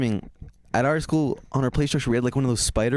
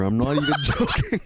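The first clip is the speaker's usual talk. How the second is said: laughing; 3 semitones higher than usual. Real, not acted. Laughing while telling absurd story.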